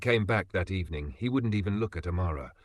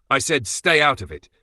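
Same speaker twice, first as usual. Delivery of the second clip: a higher, louder hard warning; angry repeat; 5 semitones higher, 6 dB louder than usual. Acted. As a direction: put her in her place. Husband repeats angrily.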